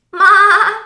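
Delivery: high, very loud bleating ma; goat bleat. A narrator's reading. The goat calling to the truck. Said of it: "said the goat".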